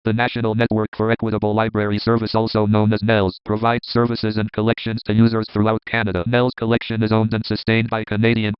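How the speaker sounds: slow, even Eloquence robot voice; slow robotic synthesizer. Shown as a demonstration. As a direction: read it slowly like an old synthesizer. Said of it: "it sounds like this".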